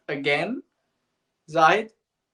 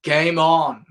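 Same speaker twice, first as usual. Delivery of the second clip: louder, sarcastic commentator's quip; Richie Bernard; 6 dB louder than usual. Retold or imitated. Commentator reacting to a six in a hopeless chase, sarcastic. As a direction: lightly imitate a sarcastic commentator. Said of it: "in his usual sarcastic way".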